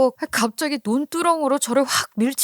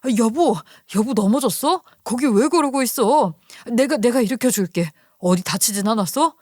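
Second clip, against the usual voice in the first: lightly acted worried, hurrying husband; flustered husband. Husband rushing to fallen wife in the ditch, mildly alarmed. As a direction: call out with a touch of urgent concern. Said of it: "아주 헐레벌떡 달려오더라고요".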